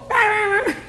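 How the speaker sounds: high, loud call over the waves; a boy shouting on the beach, calling out high and loud; boy yelling. Retold or imitated. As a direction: shout it over the noise of the surf. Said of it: "Aí ele gritou".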